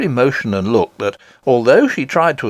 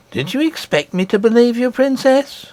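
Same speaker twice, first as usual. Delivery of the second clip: coldly; 12 semitones higher than usual. Acted. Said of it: "asked the nurse coldly".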